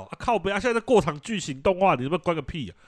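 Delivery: high-pitched mock rant; hammed-up parental fury; mock angry parent. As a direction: meme parent ranting at a cutscene. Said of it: "有的那个梗图的啊".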